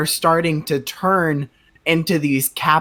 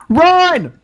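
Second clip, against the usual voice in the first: monster yell; 12 semitones higher than usual. Acted. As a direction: bark the warning like a monster.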